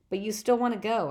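Percy amazed at Grover's resolve. Acted. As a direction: say it stunned he would still go. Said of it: "I said, amazed".

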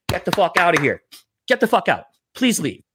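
"Get the fuck outta here", "Get the fuck out", "Please leave" as separate emphatic orders; spelled-out retold order. Bouncer making a man understand "Please leave", spelled-out retold order. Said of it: "Let me say it how you'll understand".

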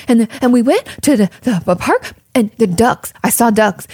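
imitating a breathless, excited child rattling off a story; excited little kid. Kid back from the park, gasping out the duck story. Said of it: "like, out of breath".

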